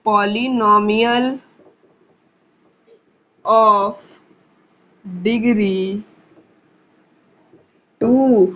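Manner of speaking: very slow, isolated words with long pauses; word-by-word dictation. Real, not acted. Teacher writing the quadratic definition for students, word-by-word dictation.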